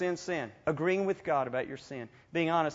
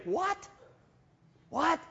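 stunned; 11 semitones higher than usual. Retold or imitated. Stunned by Ricky's request.

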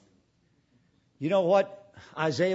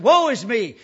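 Isaiah's cry; 6 dB louder than usual. Acted. Isaiah's cry quoted again.

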